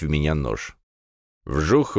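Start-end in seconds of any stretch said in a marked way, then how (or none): 1.4-2.0 light whoosh with a rise. A narrator's reading. Narrator voices an arrow flying, whooshing.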